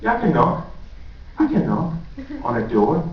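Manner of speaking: high, mock-sweet sarcastic mom; passive aggressive mom. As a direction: do a sarcastic mum who feels wronged.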